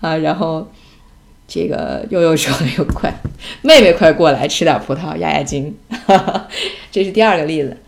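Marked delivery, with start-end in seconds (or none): 2.6-5.8 loud mock-urgent summons; calling out. Retelling a call to little sister to eat grapes, loud and urgent. 5.8-6.9 short breathy laugh; amused laugh. Real, not acted. Mother laughing at the family story she told, amused. Laughs after her own punchline.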